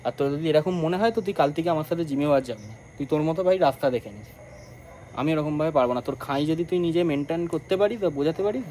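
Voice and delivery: loud, heated telling-off; angry scolding. Real, not acted. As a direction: lay down an ultimatum, heated and loud. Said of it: "একটু বেশি রাগারাগি করে ফেলেছি".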